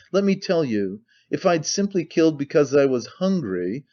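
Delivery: "simply killed" and "hungry" given deliberate weight; emphatic delivery through "because I was hungry"; stress on every word. A narrator's reading. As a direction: lean on each word up to "hungry". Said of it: "laying stress on every word".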